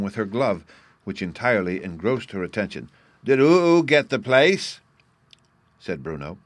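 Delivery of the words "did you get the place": put-on high, loud, slow little boy; child voice. A narrator's reading. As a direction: ask eagerly like a small child. Bruno child voice.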